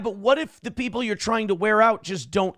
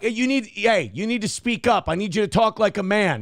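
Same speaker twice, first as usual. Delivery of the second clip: firm demand; 4 semitones higher than usual. Retold or imitated. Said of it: "he definitely got yelled at".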